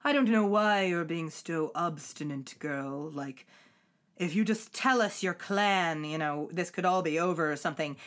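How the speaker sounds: low, imitated smooth commander; retold low and commanding; deep sensuous voice. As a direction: drop into a deep, throbbing voice. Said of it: "deep voice saying".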